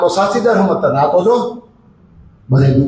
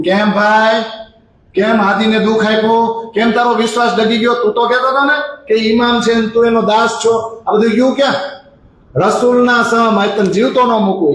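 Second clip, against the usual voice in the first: higher pitched angry reproach; angry scolding; 5 semitones higher than usual. Retold or imitated. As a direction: scold the traitor, threatening his life. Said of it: "આટલો ગુસ્સે". (ગુસ્સાથી ઠપકો અને ધમકી)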